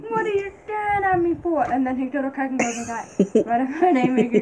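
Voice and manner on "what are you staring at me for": mock confronting. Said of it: "I'm like".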